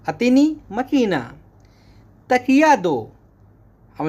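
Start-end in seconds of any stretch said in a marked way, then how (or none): 0.1-1.2 अतनी मकीना higher, stress on अतनी, falling; Arabic model phrase. Shown as a demonstration. Teacher modelling Arabic for machine. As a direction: give अतनी मकीना clearly. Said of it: "इसको बोलेंगे".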